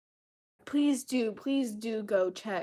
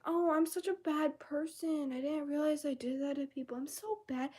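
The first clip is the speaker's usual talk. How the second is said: mock self-pity; 6 semitones higher than usual. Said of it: "I'm like".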